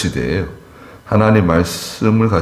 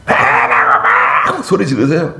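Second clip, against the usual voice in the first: laughing; 10 semitones higher, much slower than usual. Real, not acted. Pastor laughing while telling of the yelling, high laughing voice. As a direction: laugh through it, voice high and cracking. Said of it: "아유, 이렇게 소리를 이렇게 지르시니까".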